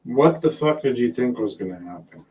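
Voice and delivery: normal talking voice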